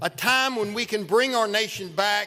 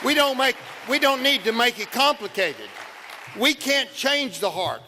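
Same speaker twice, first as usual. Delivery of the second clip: rally speech; 5 semitones higher than usual. Real, not acted. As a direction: build to a fervent peak. Rally climax, raised voice.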